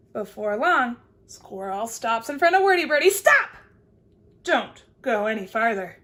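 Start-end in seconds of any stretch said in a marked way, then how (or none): 3.1-6.0 alarmed shout. Acted. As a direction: yell to stop her. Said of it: "That's what squirrel says".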